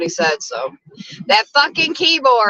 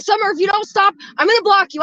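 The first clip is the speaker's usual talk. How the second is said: imitating Jeff; 8 semitones higher, faster than usual. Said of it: "he's like".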